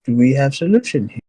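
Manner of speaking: simple broken-grammar orc; lightly voiced orc asking again. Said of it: "now she's, like, an orc voice".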